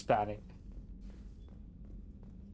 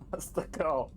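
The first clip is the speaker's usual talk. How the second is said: whispered aside; 3 semitones higher than usual. Pretend. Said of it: "I wanted it to sound fake".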